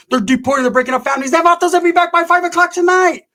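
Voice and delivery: mocking outrage; lightly hammed-up protester. Mocking protesters then punchline.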